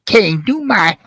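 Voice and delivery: lightly mimicked friend, pitch jumping about; Mojo. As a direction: quote them in their accent, drawing out the end. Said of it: "you even told me".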